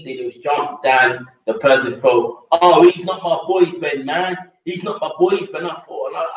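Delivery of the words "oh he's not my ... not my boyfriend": higher, mocking imitation of her protest; mocking girl's denial. Mimicking the sister insisting he's not her boyfriend, mock higher voice. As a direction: parody her snapping back at the gossip.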